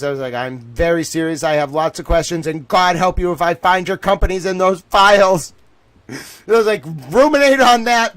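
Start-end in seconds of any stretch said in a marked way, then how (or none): 0.3-5.5 rising threat. Retold or imitated. Threatening donor on phone call. 7.1-8.1 higher and louder, triumphant jab; loud parting shot. Retold or imitated. Parting shot before hanging up.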